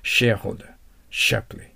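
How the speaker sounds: "シェアホルダー" and "シャープリー" each opening on a strong English sh; rounded "sh" sound. Shown as a demonstration. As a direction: model the sh in "シェアホルダー", then "シャープリー". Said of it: "シュで発音しないといけません".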